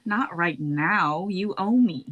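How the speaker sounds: loud, slow stern order; firm command. Acted. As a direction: stop her cold. Bia stops Skeela's attack.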